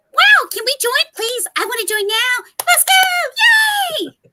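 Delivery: very high, squeaky, swooping cartoon hamster voice. Showing another voiceover role: video game hamster voice. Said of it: "the hamsters that I do for the video game".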